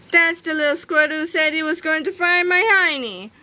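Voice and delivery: high, indignant accusation; crying out. A narrator's reading. Miss Anthrope accusing Melvin before the crowd, crying out. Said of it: "cried Miss Anthrope".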